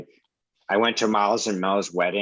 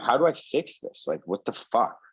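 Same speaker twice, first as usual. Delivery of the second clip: exasperated self-questioning; 5 semitones higher than usual. Retold or imitated. Injured man asking himself how to recover, exasperated. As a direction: mock-desperate question, pitched high then dropping. Retells his panicked self-talk after injury.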